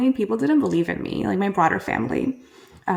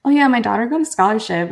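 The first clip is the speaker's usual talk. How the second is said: louder, higher mock-bragging dad; imitated proud boast; 3 semitones higher, 6 dB louder, faster than usual. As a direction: brag casually about your daughter, loudly. Acts out dad bragging to people.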